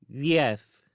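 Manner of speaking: high, lisped answer; lisping child. Acted. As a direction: answer smugly in a little lisp. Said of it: "have to lisp like that".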